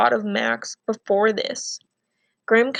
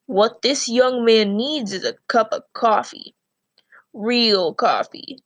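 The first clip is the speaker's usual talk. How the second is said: stern grandfather voice; slower than usual. Acted. And he goes.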